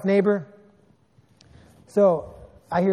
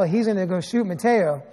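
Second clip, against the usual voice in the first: ordinary delivery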